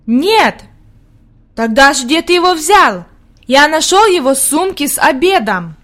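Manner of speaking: lively acted child dialogue; children's lively exchange. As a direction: blurt it out like children quizzing each other. Plays Peter and Heidi.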